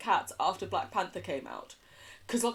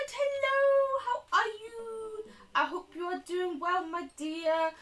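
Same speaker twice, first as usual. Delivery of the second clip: a high, sugary hello; sweet high greeting; 13 semitones higher, slower than usual. Acted. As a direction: coo over them like a granny.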